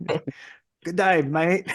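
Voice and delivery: put-on a light, half-hearted Australian accent on a greeting; joking imitation of an Australian accent, barely put on; mock Australian accent. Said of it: "is that an accent I'm detecting?".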